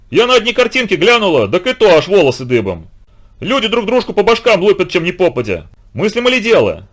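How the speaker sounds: high, loud folksy scolding; scolding old housekeeper. A narrator's reading. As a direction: nag him like an old nanny. Dasha's long reproach.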